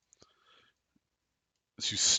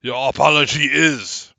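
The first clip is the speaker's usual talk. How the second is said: statue voice; 3 semitones higher, 6 dB louder than usual. Acted. Statues answer in character.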